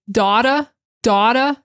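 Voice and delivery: Boston "daughter" as "dahtuh"; Boston accent. Shown as a demonstration. Teacher contrasting Boston "daughter". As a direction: open "daughter" wide, drop the r, Boston way. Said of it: "Boston is gonna say".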